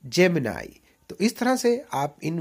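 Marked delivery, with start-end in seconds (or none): 0.1-0.8 जेमिनाई ending in nai; जेमिनाई with a long nai; correct Gemini. Shown as a demonstration. Teacher models जेमिनाई. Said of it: "फिर से".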